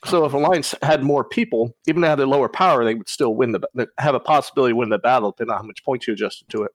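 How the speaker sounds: talking through a mouthful of peanuts; chewing peanuts between words; chewing while talking. Real, not acted. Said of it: "Sorry, I'm chewing on peanuts".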